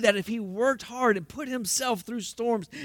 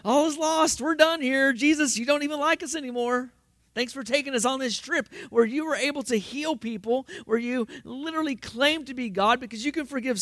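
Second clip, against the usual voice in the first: higher, mock-despairing complaint to Jesus; panicking disciple; 6 semitones higher than usual. Preacher voicing the disciples blaming Jesus, high mock whine. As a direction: whine it like a betrayed, frightened follower. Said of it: "in line with the disciples".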